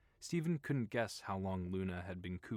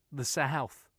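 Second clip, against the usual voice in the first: coy; 6 semitones higher, 8 dB louder than usual. Acted. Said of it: "with a coy smile".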